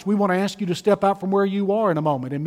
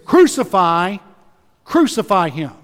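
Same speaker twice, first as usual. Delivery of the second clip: loud cry of crucify; the crowd shouting to Pilate, loud demand; mob shout; 5 dB louder than usual. Retold or imitated.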